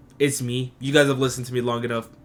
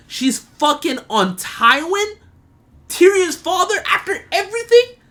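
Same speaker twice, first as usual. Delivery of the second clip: high, loud, laughing disbelief; shocked and laughing at it; outraged disbelief; 5 dB louder than usual. Real, not acted. Outraged at Shae's betrayal.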